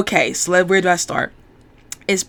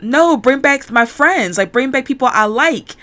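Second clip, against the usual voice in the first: higher-pitched imitated pleading objection; acted protest; 5 semitones higher than usual. Man asking the computer for friends, acted protest.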